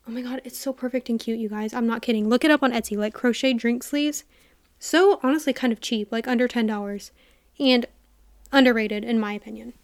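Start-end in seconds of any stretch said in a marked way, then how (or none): 4.8-9.7 slightly out of breath, talking between breaths; a little winded mid-sentence. Real, not acted. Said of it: "I get so out of breath when I record podcasts".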